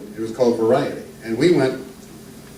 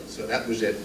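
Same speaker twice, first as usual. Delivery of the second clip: lightly voiced old comic; 4 semitones higher than usual. Introduced old northern comic telling jokes to the crowd, lightly voiced. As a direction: ease into a genial old music-hall comedian.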